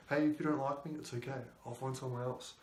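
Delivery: relaxed, soft and unbothered; quiet, easygoing James Bond type letting her go; chill cool dude. Pretend. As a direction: shrug it off like a cool dude who doesn't care. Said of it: "James Bond would be like this cool dude. He's chill".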